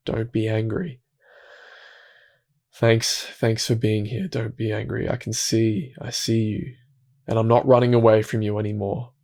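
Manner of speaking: soft, gentle words to a scared inner part; quiet, caring acceptance; tender reassurance. Shown as a demonstration. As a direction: reassure it softly, like soothing a child. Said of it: "this loving curiosity that we bring to it".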